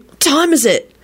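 high, grumpy question; peevish. A narrator's reading. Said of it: "Timothy muttered peevishly".

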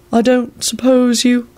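slow, high, hopeful hint; appreciative. A narrator's reading. Servant hinting after the guest's cloak, appreciatively. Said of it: "he said appreciatively".

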